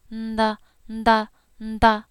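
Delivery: nda with a soft nasal lead-in. Shown as a demonstration. Teacher modelling the soft nasal nda. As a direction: start each nda through the nose. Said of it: "Here's the soft nasally".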